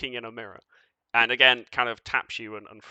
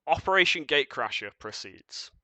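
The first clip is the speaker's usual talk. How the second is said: whisper; 3 semitones higher, 3 dB louder than usual. Acted. Entity announces to the squad.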